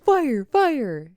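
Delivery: hammed-up panicked calling out; retold fire alarm yell. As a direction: imitate someone raising the alarm. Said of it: "Chloe's like".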